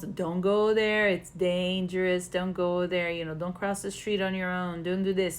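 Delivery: warning mom. Retold or imitated. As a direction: voice a protective mom telling a child no. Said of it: "like when your mom's".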